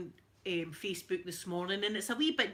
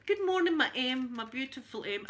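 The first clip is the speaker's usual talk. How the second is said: higher and louder warm hello; bright greeting; 3 semitones higher, 4 dB louder than usual. Real, not acted. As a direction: greet her like a dear friend. Greeting viewer.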